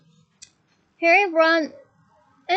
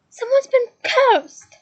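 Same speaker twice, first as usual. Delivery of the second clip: much higher, loud, slow bellow; 9 semitones higher, 7 dB louder, slower than usual. A narrator's reading. Harry telling Hagrid over the storm, bellowing. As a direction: bellow it over the raging wind. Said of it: "bellowed Harry".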